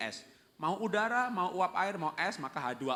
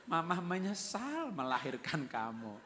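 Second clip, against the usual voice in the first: mock gentle; 3 semitones higher, slower than usual. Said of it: "lemah lembut sekali".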